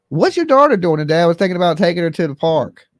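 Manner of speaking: breezy mock boyfriend, fast; imitating a boyfriend. Boyfriend fishing for time with the daughter, fast and casual. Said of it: "your boyfriend calling you up and going".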